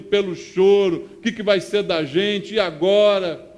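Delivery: loud proclamation of the Psalm; a pastor booming Scripture from the pulpit; preaching at full force. Acted. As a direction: declare the verse to the church. Preacher tells the disciples' despair.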